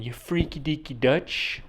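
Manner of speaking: slow put-on film comedy voice; lightly imitated movie catchphrase; movie quote. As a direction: stretch out the silly insult. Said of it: "if you've ever watched Austin Powers".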